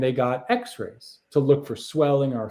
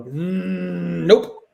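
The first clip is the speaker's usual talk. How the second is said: high, loud yappy little dog; teacup chihuahua voice; 4 semitones higher, 4 dB louder than usual. Retold or imitated. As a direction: play a tiny dog refusing, higher and louder.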